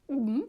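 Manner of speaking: loud exaggerated swallow noise; short vocal gulp. Shown as a demonstration. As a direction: demonstrate swallowing in one go. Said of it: "in one swallow, like this".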